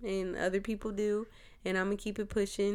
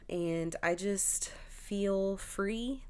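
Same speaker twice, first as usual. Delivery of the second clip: sincere; 2 semitones higher, much slower than usual. Real, not acted. Slow sincere testimony.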